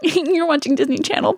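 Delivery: high, cutesy TV promo greeting; a teen star. Retold or imitated. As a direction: imitate a teen star trying to be cute. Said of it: "trying to be so cute".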